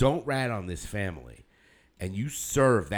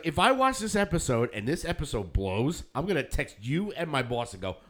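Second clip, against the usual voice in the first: raised, animated warning; retold mock threat; 5 semitones higher than usual. Viewer warning friend and boss, animated mock threat. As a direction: pitch it up as a playful threat.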